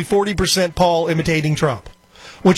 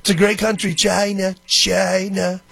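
Trump impression; 3 semitones higher than usual. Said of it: "He's basically doing a Trump impression".

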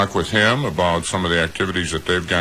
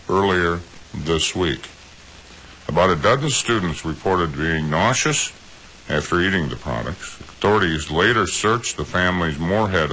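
news read. Acted. Reads news story on air.

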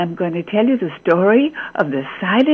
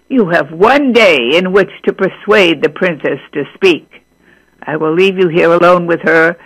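a hint of a stern king, louder and firm; 2 semitones lower, 4 dB louder than usual. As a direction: warn the suitor like a king. King sets the task.

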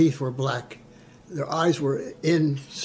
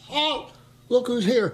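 high nervous repeat; 8 semitones higher than usual. Retold or imitated. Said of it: "I says".

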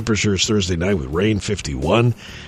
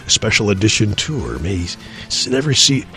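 deep dramatic trailer narrator; low, dramatic movie-trailer read; 4 semitones lower, 3 dB quieter than usual. Acted. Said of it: "my trailer voice".

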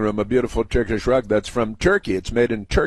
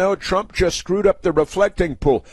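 mocking critics; 8 semitones higher than usual.

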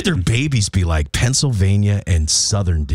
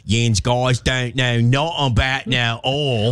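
slow, hammed-up Pennsylvania dialect; mock Pennsylvania accent; slower than usual. Imagined Pennsylvania spouse answering, slow mock Pennsylvania accent. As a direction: drag it out in comic Pennsylvanian. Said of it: "That's Pennsylvania".

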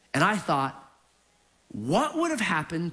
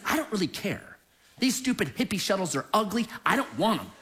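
put-on Texas accent; 3 semitones higher than usual. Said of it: "strong Texas accent".

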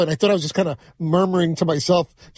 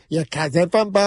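put-on Boston accent. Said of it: "making fun of, like, the, the Boston accent".

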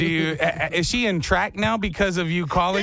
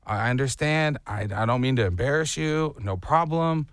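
mom reassuring; 5 semitones lower than usual. Retold or imitated. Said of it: "and my mom said".

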